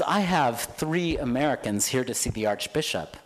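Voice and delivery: cab driver voice. Retold or imitated. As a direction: announce the visitors like a bored cabbie.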